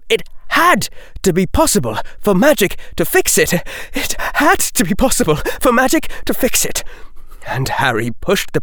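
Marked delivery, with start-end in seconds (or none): 0.1-6.8 higher and faster each time; frantic inner chant, climbing; desperate rising repeat. Acted. Repeated line, mounting desperation.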